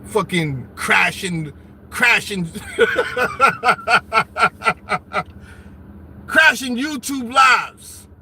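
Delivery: slow, low, broken by laughter; can't get the words out for laughing. Real, not acted. Streamer cracking up about crashers, laughing.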